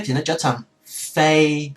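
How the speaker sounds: kéo dài chữ fade; stretched fade. Shown as a demonstration. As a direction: fade with a long drawn-out vowel. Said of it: "kéo dài ra hơn".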